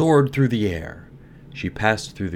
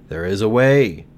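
grave rose tree; 4 semitones higher, 9 dB louder than usual. A narrator's reading.

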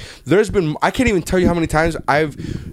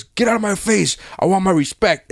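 mock angry demand, pitched up; imitated pissed-off boxer; 5 semitones higher than usual. Fan quoting the angry boxer challenging Rocky, mock pissed off. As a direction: act out a touch of a boxer's fury. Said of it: "Tommy's so pissed off".

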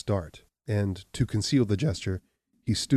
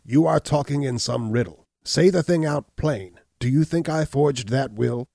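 higher and louder, pushing to a near shout; rising anger; 6 semitones higher, 5 dB louder than usual. A narrator's reading. Hunchback confronting Abner over the will, angry rising shout. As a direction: demand he say it plain, voice climbing. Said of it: "The hunchback's face grew stern and resolute".

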